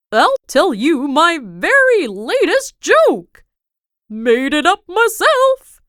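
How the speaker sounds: modest. A narrator's reading. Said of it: "he added modestly".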